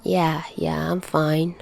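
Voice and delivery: put-on dizzy teen waving off the fuss, soft mumble; mumbled. A narrator's reading. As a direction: brush it off under your breath. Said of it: "Peter mumbles".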